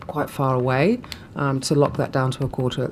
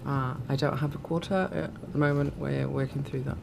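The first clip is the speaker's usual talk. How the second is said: losing voice; 3 dB quieter than usual. Real, not acted. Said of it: "Sorry, I'm losing my voice".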